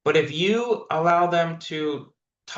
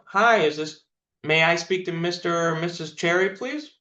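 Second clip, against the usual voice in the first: mock timid caller; 3 semitones higher than usual. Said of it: "people are like".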